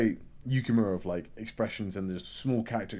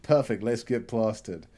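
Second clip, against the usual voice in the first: tipsy dad; slower than usual. Retold or imitated. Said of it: "he's getting drunk and he's like".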